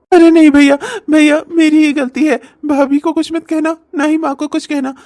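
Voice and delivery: hammed-up sobbing complaint; fake crying. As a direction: whine to mother, sobbing. S0 plays younger brother.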